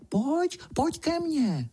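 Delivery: slow, high, wheedling lure; sly luring voice. A narrator's reading. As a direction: coax someone into the field, slowly. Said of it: "šeptá úlisným hláskem".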